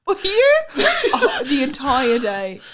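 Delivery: laughing. Real, not acted. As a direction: squeal it through laughter. Laughing, high and loud.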